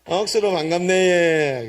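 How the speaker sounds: slow, drawn-out Gyeongsang greeting; Gyeongsang dialect. Shown as a demonstration. Preacher leads congregation's greeting, in Gyeongsang dialect. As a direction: stretch the Gyeongsang greeting out to its end. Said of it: "경상도 말로 우리 인사합시다".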